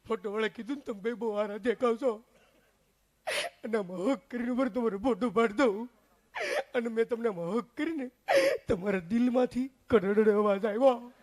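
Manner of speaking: comic sobbing aunt; lightly hammed-up weepy voice; mock crying. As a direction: tell it through fake sobs. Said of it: "મારી કાકી રોવે".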